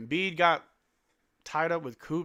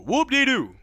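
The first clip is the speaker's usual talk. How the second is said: high, loud mock celebration; a loud sarcastic hooray; sarcastic whoop; 11 semitones higher, 10 dB louder than usual. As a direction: cheer it up high with fake glee. Mock cheer repeated.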